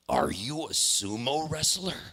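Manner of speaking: lightly voiced old dad sizing someone up; incredulous question, drawn up at the end; a hint of an astonished old man; father's wondering question.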